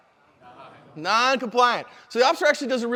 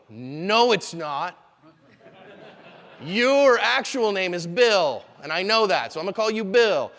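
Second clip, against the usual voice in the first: mock officer flatly correcting him, slow in places; a lightly voiced, stubborn cop refusing his story; wrong way, dismissive; blunt correction; slower than usual. Shown as a demonstration. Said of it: "And if you go".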